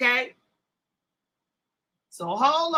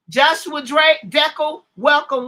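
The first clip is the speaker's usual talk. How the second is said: slow, louder welcome call to a joining guest; drawn-out greeting; 3 semitones higher, 6 dB louder, slower than usual. Real, not acted. Host welcoming a guest on the stream, slow and loud. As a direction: stretch the name out like a host announcing.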